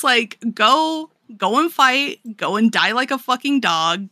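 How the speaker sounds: mock-angry girlfriend rant; retold angry rant. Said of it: "starts laying into him".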